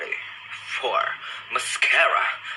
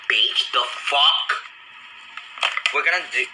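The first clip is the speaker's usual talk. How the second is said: put-on sassy voice. Real, not acted. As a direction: stretch it out with attitude. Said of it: "I really do not know why I speak like that sometimes".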